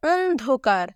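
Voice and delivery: অন্ধকার slow, with a held rounded "on"; standard pronunciation. Shown as a demonstration. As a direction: stretch the first syllable of অন্ধকার, "onn-dhokar". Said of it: "এখানে আমরা কীভাবে লিখবো".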